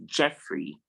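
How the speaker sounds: short E in Jeffrey; correct pronunciation. Shown as a demonstration. Teacher correcting students, Jeffrey as JEF-ree. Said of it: "it's pronounced".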